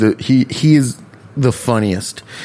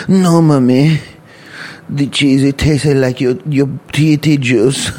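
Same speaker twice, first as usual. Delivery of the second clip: put-on little kid voice; 2 semitones higher than usual. Kid Ponce answering mom.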